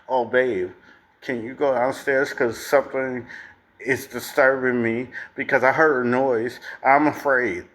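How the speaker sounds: whiny scared partner voice; mock scared wife. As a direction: mimic a helpless fearful partner. Mocking a scared wife asking.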